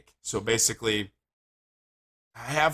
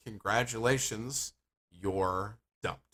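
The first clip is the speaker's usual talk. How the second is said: slow, measured "Congratulations", then a pause before "you're dumped"; "Congratulations" stretched slow, "you're dumped" set apart; deliberate repetition; slower than usual. Retold or imitated. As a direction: spell it out for someone who didn't get it, drawing out "Congratulations". Repeats order for puzzled baker.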